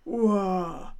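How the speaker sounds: a proud, moderate hurra; hearty cheer. Acted. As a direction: cheer as you make your entrance. Lion bursts in cheering.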